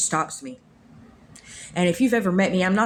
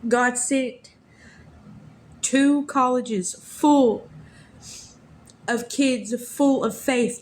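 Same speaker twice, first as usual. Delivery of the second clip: higher, slow, voice on the edge of crying; holding back tears; 4 semitones higher than usual. Real, not acted. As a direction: speak slowly, fighting not to cry. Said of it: "I'm probably gonna cry".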